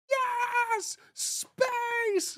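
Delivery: put-on gleeful kid on a ride; excited cheer. Fan riding Space Mountain, squealing with excitement. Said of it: "on Space Mountain going like".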